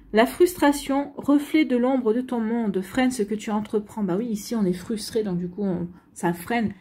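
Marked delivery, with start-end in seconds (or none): 0.1-4.0 solemn reading. Acted. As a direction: read the oracle card slowly. Reads the card message aloud.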